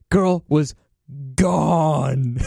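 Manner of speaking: real amusement breaking between the words; chuckling in disbelief; laughing. Real, not acted. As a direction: draw out the punchline through laughter. Laughing at his own story.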